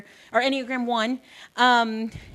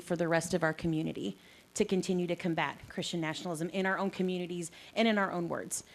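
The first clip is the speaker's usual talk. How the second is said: out of breath; 4 semitones lower, 7 dB quieter than usual. Real, not acted. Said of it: "Sorry, I'm out of breath already".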